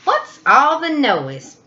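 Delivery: a squeaky woken mouse complaining; grumpy mouse. Acted. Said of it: "Mouse asked".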